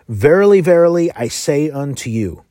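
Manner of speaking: proclaiming verily, verily with weight; emphatic verily. Retold or imitated. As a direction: ring out each verily to grab attention. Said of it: "his way of stressing a deeper importance".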